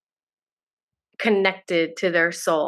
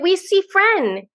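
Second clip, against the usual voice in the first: put-on higher, slow small-child voice; little daughter; 12 semitones higher, 5 dB louder, slower than usual. Mom imitating her daughter for the podcast hosts, higher, slow child voice. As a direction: say it slowly like a small girl insisting.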